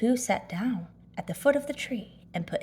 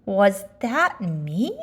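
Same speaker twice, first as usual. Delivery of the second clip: slow, hushed wonder; child's awed slow question; 4 dB louder, much slower than usual. Acted. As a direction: ask it slowly, hardly believing. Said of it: "in an awed voice".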